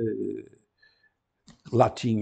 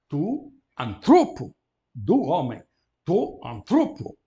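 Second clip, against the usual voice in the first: tu anTROpo, slow and louder; slow model genitive; 3 semitones higher, 7 dB louder, slower than usual. Shown as a demonstration. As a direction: stress the penultimate for the class. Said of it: "Atenção à desinência final".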